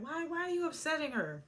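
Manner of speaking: high-pitched mock challenge; imitated confrontation. Allison comes at Ralph over Drew, high-pitched challenge. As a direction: retell her confronting him, voice pitched well up.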